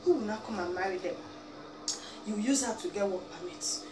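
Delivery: ordinary delivery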